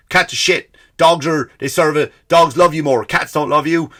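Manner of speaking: mock passionate.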